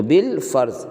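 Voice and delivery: "بالفرض" joined as bil-farz; no alif in "بالفرض", straight into the L; silent alif, sounded lam. Shown as a demonstration. Teacher summing up, "بالفرض" as bil-farz. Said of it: "تو الف یہاں بھی تلفظ میں نہیں آ رہا".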